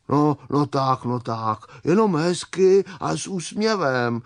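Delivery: soothing, coaxing bumblebee; gentle encouragement. Acted. Čmelda cheering up the tearful hen, gentle encouragement. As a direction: coax gently towards a smile. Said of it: "povzbuzoval jí Čmelda".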